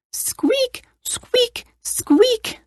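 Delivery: tiny, very high squeaks; soft falsetto creak of a bed; squeaky bed. A narrator's reading. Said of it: "the bed began to squeak".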